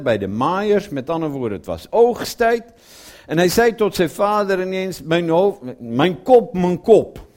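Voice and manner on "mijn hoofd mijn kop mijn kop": crying out "Mijn hoofd, mijn kop" louder, in pain; a boy calling out that his head hurts. Retold or imitated. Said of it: "Ik geloof niet dat hij gezegd heeft".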